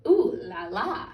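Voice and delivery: put-on French accent, slow and pleased; French rooster. A narrator's reading. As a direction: savour it like a satisfied French gourmet. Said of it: "and the rooster said".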